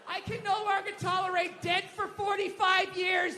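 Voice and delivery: hammed-up righteous outrage; mock indignation. Woke white people up in arms about a dead white guy, mock indignation. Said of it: "all up in arms".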